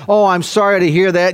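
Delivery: mock hollow 'Oh, I'm sorry'; hammed-up empty condolence; phony pious sympathy. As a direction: toss off a fake-sympathetic line and move on. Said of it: "phony, pious platitudes".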